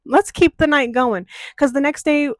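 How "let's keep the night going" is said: playful party urge. Retold or imitated. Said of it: "we're like".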